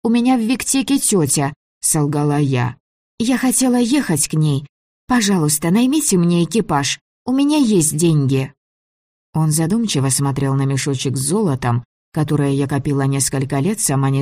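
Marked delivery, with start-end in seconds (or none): 0.0-8.5 put-on high child's voice, pleading lie; a small girl talking him into it.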